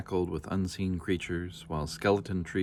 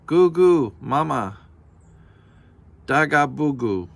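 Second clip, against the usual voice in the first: put-on high, louder baby babble; baby dragon babble; 7 semitones higher, 9 dB louder than usual. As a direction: coo like a waking baby dragon.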